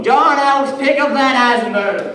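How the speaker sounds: high, loud imitation of an angry mother; shrill-pitched motherly shout; mom yelling. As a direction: yell it across the room like a mom. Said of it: "his mom yells from the other side of the room".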